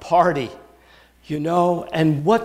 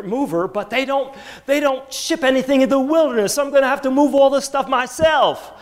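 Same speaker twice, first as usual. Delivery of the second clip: higher, fretting Abraham sorting out his move; rising fussy Abraham; 8 semitones higher than usual. Acted. Preacher as Abraham, fussing over moving, raised and fretful. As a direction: act Abraham grumbling about hauling his own things.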